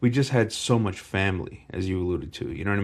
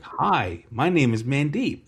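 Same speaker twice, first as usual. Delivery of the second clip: higher, deliberate introduction; demonstrating "Canadian"; 6 semitones higher, 3 dB louder than usual. Retold or imitated. New boy showing schoolmate his "Canadian", higher demonstrative voice. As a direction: announce it like a language demonstration. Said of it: "What do you want me to say in Canadian".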